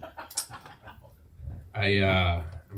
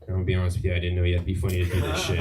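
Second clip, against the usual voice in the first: fast deadpan repeat; much faster than usual. Shown as a demonstration. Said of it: "repeat of the opening joke".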